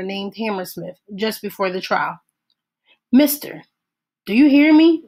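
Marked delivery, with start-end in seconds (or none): 3.1-3.6 raised, higher call of mister; mister called out loudly, pitched up. A narrator's reading. Deputy calls to weeping man. 4.3-5.0 louder and higher, pressing for an answer; raised voice to get his attention; loud demanding call. A narrator's reading. Deputy calls to weeping man.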